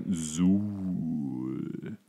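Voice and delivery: low, drawn-out growling monster word; monster dog voice. Retold or imitated. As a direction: growl it like a hellhound. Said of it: "einer von beiden sagt". (tiefes Monsterknurren)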